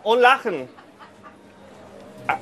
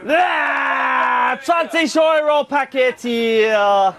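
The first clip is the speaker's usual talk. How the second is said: market crier shout; much slower than usual. Real, not acted.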